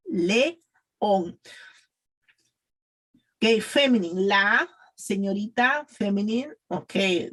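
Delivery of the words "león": "León" in two separate syllables, "le", pause, "on"; correct vowels. Shown as a demonstration. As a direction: model each vowel of "León" on its own. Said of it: "remember E, and it's León".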